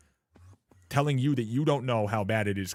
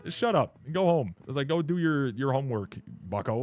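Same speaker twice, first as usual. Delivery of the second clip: retold dismissive scolding; 3 semitones higher than usual. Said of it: "I'm like".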